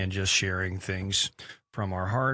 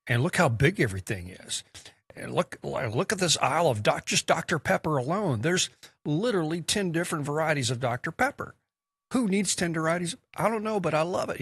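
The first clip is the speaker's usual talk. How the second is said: amazed European shopper; 7 semitones higher than usual. Retold or imitated. European visitor marvelling at Walmart aisles, excited rising voice. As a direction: play a tourist gawking at a Walmart aisle, delight building. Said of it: "they go".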